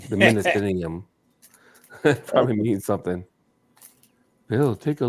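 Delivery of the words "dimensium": Dimensium drawn out slowly, syllable by syllable; slowly sounded out. Shown as a demonstration. Repeating a strange word to friends, slowly sounded out. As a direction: spell out Dimensium slowly with your voice.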